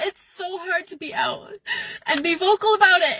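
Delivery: crying. Real, not acted. Crying about being out.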